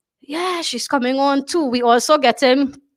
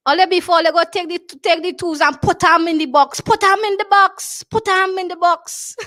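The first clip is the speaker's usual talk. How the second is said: lightly voiced Tobago foreman, higher; imitating foreman; 6 semitones higher than usual. Tobago foreman giving orders about the tools, imitated lightly. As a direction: echo the foreman's phrasing with relish. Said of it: "she say".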